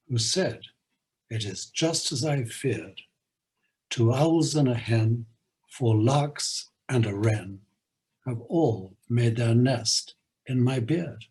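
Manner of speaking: lilting poem recitation, playful rhythm; limerick reading. Acted. Host reading a Lear limerick to listeners, lilting recitation. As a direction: read it like a nonsense rhyme for children.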